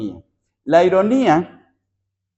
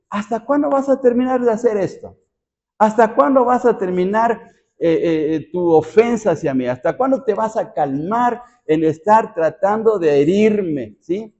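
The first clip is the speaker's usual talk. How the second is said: higher, mocking challenge from David; mocking irony; 6 semitones higher than usual. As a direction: tease the enemy, don't despair. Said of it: "como con burla".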